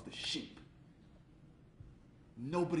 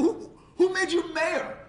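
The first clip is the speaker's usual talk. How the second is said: loud, high, drawn-out jeer; jeering challenge; 8 dB louder, slower than usual. Retold or imitated. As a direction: jeer back slowly at the top of the voice. Shepherds talk back.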